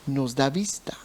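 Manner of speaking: hushed whisper of awe. Real, not acted. Preacher confiding to the congregation, whispering. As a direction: breathe it out without voice.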